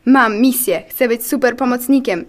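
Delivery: mildly wistful character voice; sad monologue. Acted. White cell wanting to be a helper, wistfully sad. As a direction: confide a dream with a touch of sadness. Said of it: "Ten smutny monolog".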